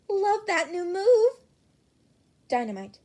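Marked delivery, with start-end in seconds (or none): 0.1-1.4 higher, louder and slow, savouring it; gushing fangirl. Acted. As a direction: swoon over the move. Pinky gushes in chat.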